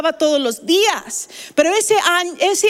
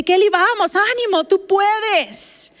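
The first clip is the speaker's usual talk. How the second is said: encouraging; 4 semitones higher, slower than usual. Retold or imitated. Gynecologist cheering on labouring patient.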